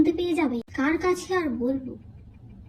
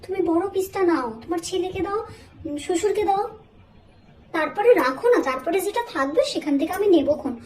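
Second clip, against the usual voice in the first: higher, sugary overly polite voice; fake sweetness; 3 semitones higher than usual. Daughter-in-law offering mother-in-law the big piece, high fake sweetness.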